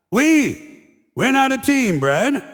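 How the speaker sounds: hammed-up indignation at the waiter; outraged disbelief. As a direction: squeak it out in mock outrage. Comic indignant retort to waiter.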